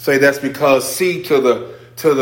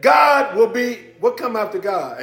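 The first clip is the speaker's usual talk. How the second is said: ordinary talk, nothing marked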